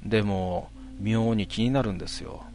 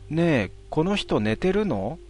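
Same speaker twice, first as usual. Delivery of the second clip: higher, slow, lightly voiced child; child's voice; 5 semitones higher, slower than usual. Ghost child asks about the sleeping man, lightly childlike. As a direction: ask it innocently like a small child. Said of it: "そして子供の声で".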